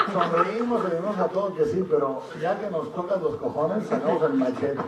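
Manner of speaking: dicho entre risas, más alto y agudo; riendo. Real, not acted. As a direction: broma contada riéndose a carcajadas. Broma sobre el carácter mexicano. (entre carcajadas)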